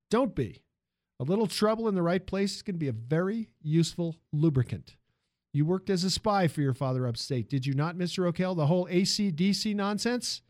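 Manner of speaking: lightly voiced interrogating employer; a hint of a commanding boss; probing industrialist boss. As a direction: question the new hire with assurance. Ford questioning the new hire.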